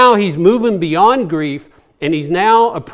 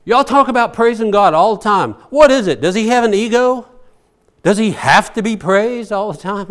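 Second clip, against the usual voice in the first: incredulous retort; 4 semitones higher, 4 dB louder than usual. Retold or imitated. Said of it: "I said".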